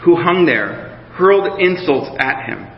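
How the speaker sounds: measured Bible reading to the congregation; preacher reading scripture to the church. Acted. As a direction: read the passage with care and weight. Reads Luke's crucifixion passage aloud.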